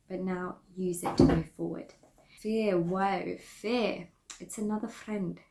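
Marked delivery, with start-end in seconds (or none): 2.4-4.1 playful mock accent on Fear, whoa; silly put-on accent. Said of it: "I don't know why I did that accent". 4.4-5.4 It's another friend in a goofy put-on accent; silly put-on accent. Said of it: "I don't know why I did that accent".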